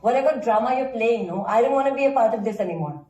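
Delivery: fed-up, heated refusal; angry quarrel. Acted. Woman refusing her partner's cover-up drama, heated. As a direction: push back at a partner, fed up.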